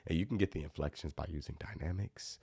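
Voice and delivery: dropped to a soft, hushed level; soft demo. Shown as a demonstration. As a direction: say it softly to show dynamics. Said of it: "I might whisper a couple things".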